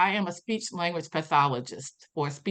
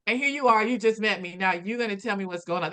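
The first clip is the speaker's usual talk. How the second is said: higher, mock-offended scoffing; indignant inner voice; 4 semitones higher than usual. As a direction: scoff in disbelief at the stranger. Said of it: "I'm thinking".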